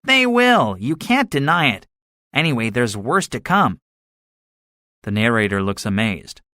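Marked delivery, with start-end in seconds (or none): 0.0-3.8 gunner, adamant. A narrator's reading. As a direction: insist on it in a raised soldier voice.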